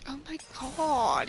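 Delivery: whisper. Real, not acted. Aside after being touched.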